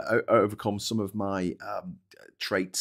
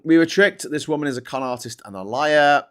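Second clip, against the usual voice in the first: louder, higher quoted outrage; quoting angry victim; 4 semitones higher, 6 dB louder than usual. Retold or imitated. Streamer quoting Omar's angry voice note, raised. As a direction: read the victim's words with heat. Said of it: "quoting Omar, raised".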